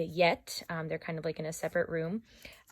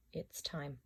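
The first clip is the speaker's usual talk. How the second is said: tell myself; 3 semitones lower, 13 dB quieter than usual. Acted. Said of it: "I tell myself".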